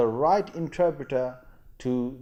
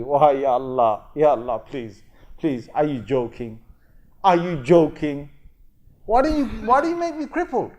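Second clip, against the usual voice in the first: pleading outcry; 5 dB louder than usual. Acted. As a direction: beg Allah, rising to an anguished cry. Man pleading with Allah on Judgment Day.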